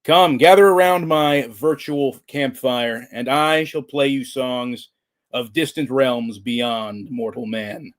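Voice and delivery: grand, slow storyteller greeting; loud, drawn-out theatrical welcome; horror host. Acted. Theatrical campfire host intro.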